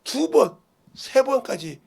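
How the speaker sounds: high, loud, slow wailing; mock plaintive cry. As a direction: stretch it out like a tearful plea. Mimicking earnest prayer. (높고 애절하게 쥐어짜듯)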